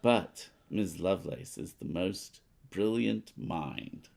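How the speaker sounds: lightly voiced news report, read out steadily; a hint of a radio announcer; newspaper read. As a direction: read the card like a news bulletin. Reads newspaper card aloud.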